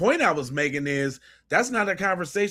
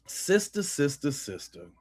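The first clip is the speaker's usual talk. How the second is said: fading to a whisper; 6 dB quieter than usual. Acted. Reacting to the clip, sister fades out to a whisper. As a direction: say sister three times, dropping from voiced to a hushed whisper.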